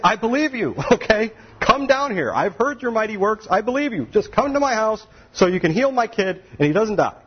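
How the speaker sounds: high, urgent begging; father begging Jesus, pitched high and pressing; desperate father. Acted. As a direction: plead frantically for your son.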